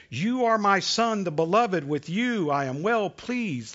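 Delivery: a proud father's warm words over his son; tender blessing. Acted. God calling out to Jesus, tender and proud. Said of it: "that sounds so nice".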